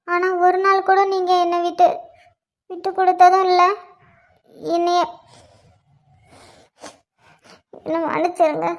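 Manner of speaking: fake crying. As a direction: act heartbroken, fighting back tears. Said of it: "இதுக்காக கொஞ்ச நேரம் அழுவ வேண்டியதாச்சு".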